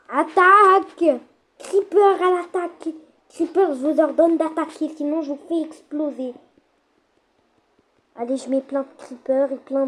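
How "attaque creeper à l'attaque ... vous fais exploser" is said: high, loud war cry, stretched attack; battle shout. Acted. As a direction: bellow the order to attack. Ordering creepers to attack.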